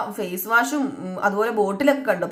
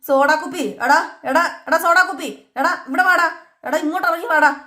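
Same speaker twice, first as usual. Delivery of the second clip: raised, higher mock yell calling someone down; retold yelling; 5 semitones higher than usual. Sachi hollering upstairs for the soda bottle, a raised mock yell. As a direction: call him down the stairs with a half-acted holler. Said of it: "കിടന്ന് അലറി".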